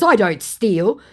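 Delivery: whiny scammer. Retold or imitated. Vlogger mocks her scammer, high and pleading. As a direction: mimic the scammer begging her to calm down. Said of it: "he goes".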